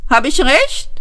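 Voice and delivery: high, pointed Vogon question; screeching cat-claw voice. A narrator's reading. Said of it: "wie eine Katze, die Nylonstrümpfe zerfetzt".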